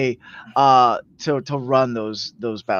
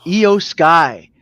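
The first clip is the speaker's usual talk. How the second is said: slow, spaced-out main event introduction; measured ring-announcer delivery; announcer build-up; 2 semitones higher, slower than usual. Acted. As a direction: announce the title match grandly, pausing between names.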